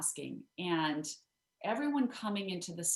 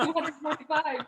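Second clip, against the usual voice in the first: laughing answer; 9 semitones higher, 7 dB louder than usual. Retold or imitated. Lynn's flustered answer retold.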